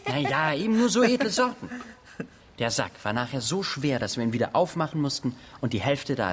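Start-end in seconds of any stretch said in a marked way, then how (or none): 0.0-1.7 high laugh then boast. Acted. Boy laughs off the question.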